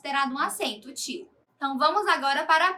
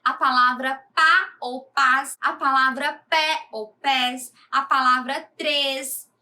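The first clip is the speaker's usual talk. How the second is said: slow example list; 4 dB louder than usual. Shown as a demonstration. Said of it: "Observem esses exemplos a seguir".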